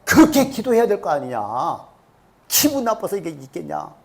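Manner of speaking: retold huffy grumbling; mildly acted wounded pride; indignant complaint. Offended Naaman complains about how he was treated, mildly indignant. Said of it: "성질이 나가지고 화가".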